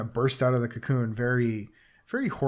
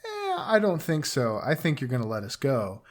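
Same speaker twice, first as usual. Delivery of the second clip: cocky defiance. Retold or imitated. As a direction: brush off the threat, cocky. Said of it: "Shepard's like".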